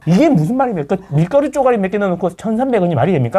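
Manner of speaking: lightly hammed-up YouTube demagogue; mock a shallow rabble-rouser stirring people up; a hint of an outraged online agitator; mock agitator rant. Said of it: "막 이런, 약간 이런 느낌이라는 거지".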